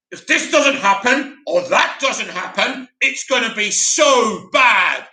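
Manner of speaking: slow, overblown doom delivery; all dramatic. Retold or imitated. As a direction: ham it up like a dramatic YouTuber. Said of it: "how was he saying it like this".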